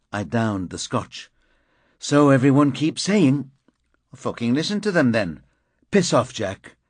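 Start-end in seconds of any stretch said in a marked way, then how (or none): 2.0-6.8 heated argument. Acted. Heated bar quarrel.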